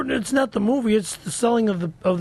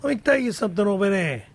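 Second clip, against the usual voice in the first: put-on shaky Boston accent, closer to Brooklyn; badly faked Boston tough talk; attempted Boston accent. Improvising a guy from Boston, in a dubious Boston accent. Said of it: "That's a Boston accent?".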